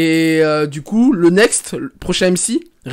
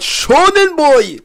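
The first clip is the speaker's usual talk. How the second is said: slow, higher heroic anime shout; All Might; 6 semitones higher, much slower than usual. Retold or imitated. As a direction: boom it out like a muscular manga hero. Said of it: "comme dirait All Might". (imitation d'All Might)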